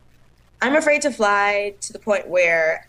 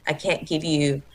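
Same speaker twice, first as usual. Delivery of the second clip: lower, flat deadpan dismissal; deadpan Mick; 5 semitones lower than usual. Retold or imitated. Mick dismissing the late dancer, low and deadpan. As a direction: drop it low and unbothered, like a bored castmate. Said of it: "Mick's face".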